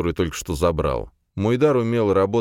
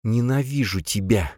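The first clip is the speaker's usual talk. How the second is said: through gritted teeth; 5 semitones higher than usual. A narrator's reading. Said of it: "процедила она сквозь зубы".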